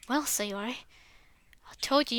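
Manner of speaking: normal talking voice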